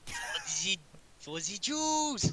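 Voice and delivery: put-on high, loud, slow German accent; hammy drawn-out German accent. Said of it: "Why'd you say it in a German accent".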